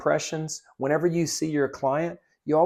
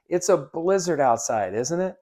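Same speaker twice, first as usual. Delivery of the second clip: cheery small talk; 3 semitones higher than usual. Shown as a demonstration. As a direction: chat up the customer about the weather. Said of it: "let me show you".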